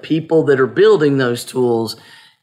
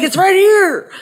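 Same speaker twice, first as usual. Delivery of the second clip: high squeaky mock insistence; imitating him pointing, pitched way up; mock insistent; 4 dB louder than usual. Mimicking her husband's insistence, high and squeaky. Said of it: "He's like".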